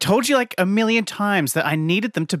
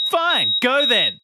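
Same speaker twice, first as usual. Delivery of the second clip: mock angry dismissal; 7 semitones higher, slower than usual. Acted quarrel ending.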